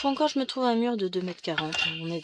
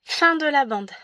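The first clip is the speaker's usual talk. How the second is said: usual speaking voice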